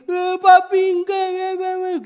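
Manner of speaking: very high, loud wail; imitated crying child. Crying child refuses from inside, loud high mock wail. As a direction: mimic a toddler bawling for daddy. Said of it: "Dia nangis".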